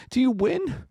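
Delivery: put-on very high little-boy voice; tiny hopeful kid voice; tearful son. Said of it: "my son and he's tearing up".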